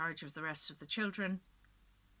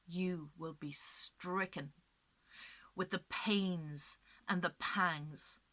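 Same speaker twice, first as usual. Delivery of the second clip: dying curse; 4 dB louder than usual. Acted. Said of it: "and she says".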